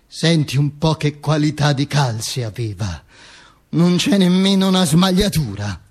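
whisper-like gossip to a neighbour; gossiping woman. Retold or imitated. A woman in the front row gossips about the stockings. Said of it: "dire alla vicina".

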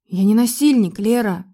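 ordinary talk

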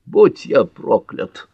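slow mutter of astonishment. A narrator's reading. Father stunned by his daughter's engagement, muttering. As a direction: draw it out as a stunned oath. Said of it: "пробормотал Джон Ф".

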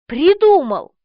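eureka. A narrator's reading. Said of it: "сказал Негодько".

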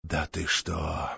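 whisper. Acted. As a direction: breathe it out in shock. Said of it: "только прошептал".

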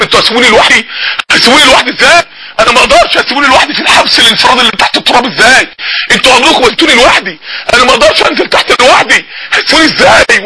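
a touch of panic, pitch jumping on انا ما اقدرش; mild terrified plea. Retold or imitated. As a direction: voice a dying youth begging not to be left. Dying young man's terror. (توسل خائف خفيف)

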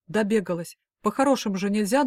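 лёгкий намёк на жёсткий упрёк; жёстко отчитывает, чуть громче. Acted. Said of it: "я услышала жёстко". (Клим жёстко отчитывает Полину)

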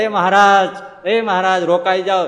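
high loud call after a rider. Acted. Attendant shouts after Maharaj riding into the storm, high loud call. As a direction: shout "એ મહારાજ" up high and loud, begging him to stop. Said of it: "માત્ર ધાધલ બૂમ પાડે".

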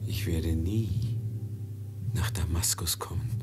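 langsam, tonlos geflüstert; geflüsterte Ahnung. Acted. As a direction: hauche es voll Todesahnung. Ahnt seinen Tod, flüstert. (geflüsterte Todesahnung)

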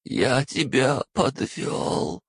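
usual speaking voice

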